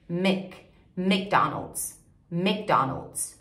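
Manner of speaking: "McDonald's" starting with short "mik"; English pronunciation. Shown as a demonstration. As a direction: model "Mick", then English "McDonald's". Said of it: "Em inglês a gente fala".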